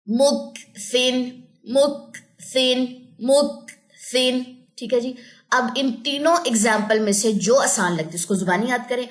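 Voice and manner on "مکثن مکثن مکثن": "مکثن" very slow, split after a puffed k; tajweed drill. Shown as a demonstration. Teacher modelling examples to repeat, slow "مکثن" with released k. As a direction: hold the breathy k of "مکثن" before the last syllable. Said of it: "اس طریقے سے".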